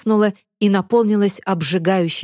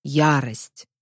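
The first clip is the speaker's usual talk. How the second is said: lower, slow giant voice tasting the word; golem tasting a name; 4 semitones lower than usual. A narrator's reading. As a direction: roll the name around like a giant. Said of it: "Голем пробовал имя на вкус".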